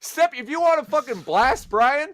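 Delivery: mock scolding. Mock scolding Fro for tame bracket.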